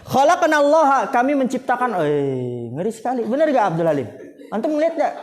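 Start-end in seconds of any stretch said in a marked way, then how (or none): 0.1-1.1 "Khalaqana Allah" higher, the last word ending in -ha; wrong Arabic reading. Shown as a demonstration. Teacher warns students about the meaning, showing the wrong reading. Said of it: "kalau begini tadi".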